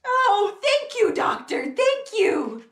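high, elated exclamations; overjoyed. Acted. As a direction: celebrate the news with acted glee. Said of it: "He got so happy".

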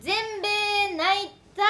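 slow, drawn-out gyaru delivery. Shown as a demonstration. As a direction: stretch it out like a gyaru. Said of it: "読み方もギャルでお願いします".

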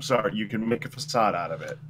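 flat robot voice. Real, not acted. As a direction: talk like a monotone robot. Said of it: "You sound like a robot".

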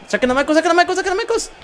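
high, urgent pleading chant; excited pleading. Real, not acted. Gamer urging wrestlers to eliminate Michaels, excited high plea. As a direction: beg them to throw him out.

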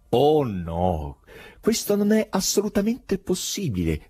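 firm denial, rising high after a slow start. A narrator's reading. The foreigner contradicting Berlioz about the evening meeting, firm. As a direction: rule it out with full certainty. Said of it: "rispose con fermezza il forestiero".

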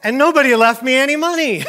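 high, loud comic lament; hammed-up self-pity; mock wailing. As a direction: wail the punchline with a laugh breaking out. Sad friend delivers the punchline.

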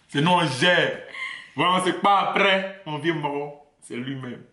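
put-on swagger like an Abidjan crew boss, Ivorian accent; asked for his best Ivorian accent, hams it up in Ivorian French. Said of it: "Do your best Ivorian accent".

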